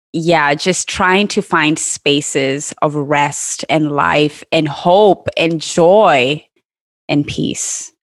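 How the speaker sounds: slow and calm. Real, not acted. Slowing on rest and peace.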